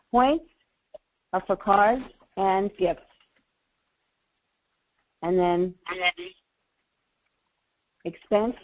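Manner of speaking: slow, spaced out for note-taking; slow dictation. Shown as a demonstration. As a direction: dictate it slowly, pausing after Points. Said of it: "I'm gonna write this for you".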